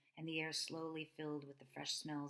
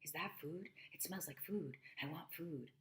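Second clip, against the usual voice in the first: lightly voiced eager dog; barking dog. Dog chasing the groceries, eager and hungry. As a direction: sniff out the food like a hungry dog.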